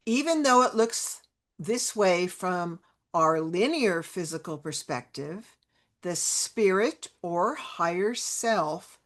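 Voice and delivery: slow, measured read-aloud with long pauses; deliberate reading, pausing between phrases. Real, not acted. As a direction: read the quote out slowly, phrase by phrase. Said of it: "I'll read it slowly".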